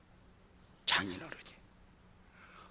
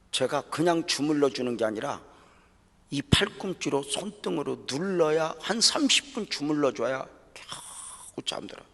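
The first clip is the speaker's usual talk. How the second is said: louder, higher, pleading; impassioned preaching; 5 semitones higher, 6 dB louder than usual. Real, not acted. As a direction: preach it with a swell of emotion. Preacher rising emotionally. (아내 이야기를 하며 북받쳐 외치는 설교)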